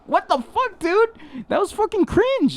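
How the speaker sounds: very high-pitched disbelieving quote; mock disgusted reaction. Host imitating people behind them in the theater, mock disgust. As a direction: imitate appalled onlookers up high. Retells annoyed moviegoers' reaction.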